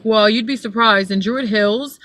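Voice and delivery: lightly put-on haughty passenger; mock pretentious. Driver imitating her passenger's act, mock pretentious. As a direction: imitate a pretentious rider, drawing out the words. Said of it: "he started acting, like, really pretentious".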